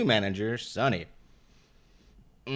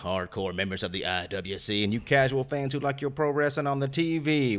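announcer intro. Acted. Host hypes the listeners.

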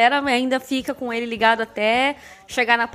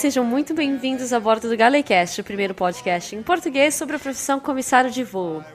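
flight attendant. Acted. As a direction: welcome them aboard like cabin crew. Podcast intro as in-flight announcement.

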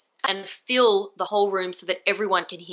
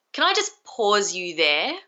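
certain, polite. Shown as a demonstration. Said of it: "say that with a lot of certainty".

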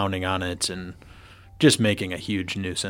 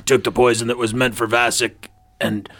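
put-on drunk and gagging. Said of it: "it sounds like you're gagging on something. You're a little bit too drunk there".

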